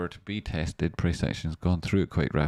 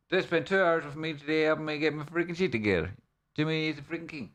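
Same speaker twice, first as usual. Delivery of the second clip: excited praise; 9 semitones higher than usual. Real, not acted. Thanking a helper.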